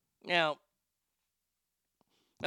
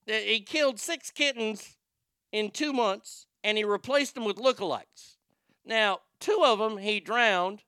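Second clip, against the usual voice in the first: higher-pitched, hammed-up Chicago accent; exaggerated Chicago accent, pitched up; 4 semitones higher than usual. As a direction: tell the tale like a Chicago local. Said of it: "I can't do this accent".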